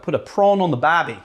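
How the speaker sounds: put-on tentative stab at an Australian accent; attempted Australian accent. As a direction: try out an Aussie accent, unsure of it. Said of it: "do an Australian accent".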